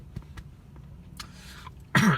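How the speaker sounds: rough coughs mid-sentence; coughing. Real, not acted. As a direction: cough through a blocked throat. Choking on a taquito.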